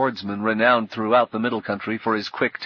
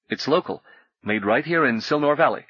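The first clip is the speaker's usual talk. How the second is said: nervous innkeeper; 4 semitones higher than usual. Acted. Innkeeper voiced, higher pitch.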